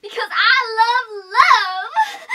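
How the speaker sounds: loud high laughing gush. Real, not acted. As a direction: squeal it through a laugh. Gushing laugh.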